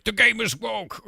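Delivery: high, slow, mocking whine; mocking complainers. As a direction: parody a whiny gamer. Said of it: "a lot of people are like".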